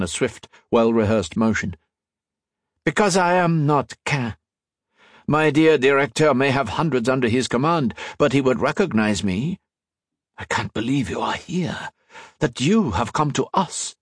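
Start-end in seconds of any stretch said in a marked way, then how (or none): 2.8-13.9 higher, triumphant unmasking; a spy revealing he saw through the disguise; lightly voiced French agent. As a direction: savour the reveal. Laroche unmasks himself.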